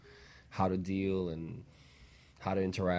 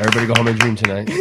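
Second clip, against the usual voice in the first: loud, fast, cheery farewell call; excited sign-off; 3 semitones higher, 12 dB louder, much faster than usual. Real, not acted. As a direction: send the audience home buzzing. Cheerful show sign-off to audience.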